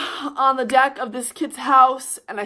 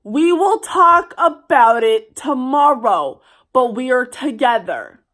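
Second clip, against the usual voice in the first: louder, firmer insistence; insisting to the boyfriend, louder; firm louder repeat; 6 dB louder than usual. Retold or imitated. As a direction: put your foot down.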